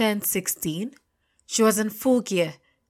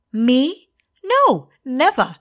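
high, slow mock denial; sarcastic exaggerated innocence; playfully sarcastic; 7 semitones higher, 7 dB louder, much slower than usual. A narrator's reading. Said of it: "I said sarcastically".

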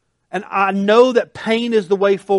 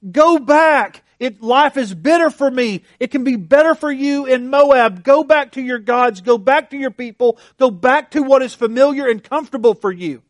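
urging plea; 5 semitones higher, 3 dB louder than usual. Retold or imitated. Naomi urging Ruth back.

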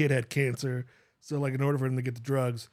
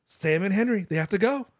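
raised pitch, emphatic villain imitation; mock insistence; 7 semitones higher, 5 dB louder than usual. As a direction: imitate a single-minded leader, pitched up.

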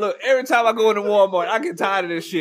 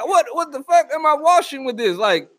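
mock outrage; 5 semitones higher than usual. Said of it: "You be like".

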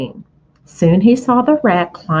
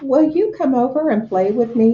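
higher, hopeful piglet asking; young pig Wilbur; 6 semitones higher than usual. Acted. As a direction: ask a friend to play, lightly voiced.

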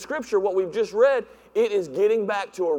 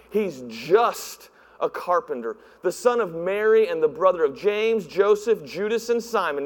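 scoffing; 4 semitones lower than usual. Retold or imitated. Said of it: "they scoffed".

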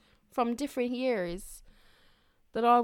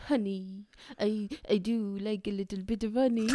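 Winnie the Pooh; 3 semitones lower than usual. Retold or imitated. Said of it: "the accent got a bit London".

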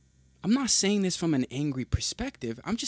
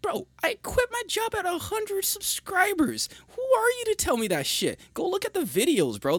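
heated retort. Real, not acted. Angry retort to haters.

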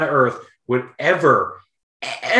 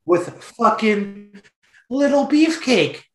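mock ranting dad. Dad ranting about Brutus kid.

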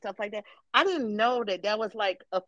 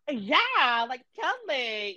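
put-on white girl voice; 4 semitones higher, much slower than usual. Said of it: "how much can I be like".

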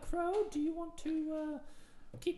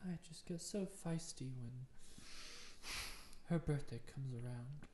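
despairing queen; 13 semitones lower, 5 dB quieter than usual. Acted.

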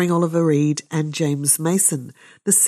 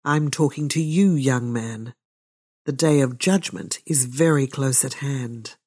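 immense dignity; 2 semitones lower than usual. Acted. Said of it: "said with immense dignity".

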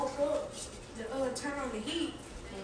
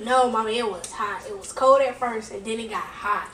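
loud, lower, stubborn correcting; loud insisting; 4 semitones lower, 11 dB louder than usual. Real, not acted. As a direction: shout the correction at mom. Kid correcting mom loudly.

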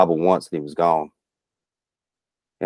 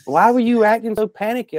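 high, puzzled buddy; 13 semitones higher, 3 dB louder than usual. Retold or imitated. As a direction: quote a confused friend. Buddy's question retold.

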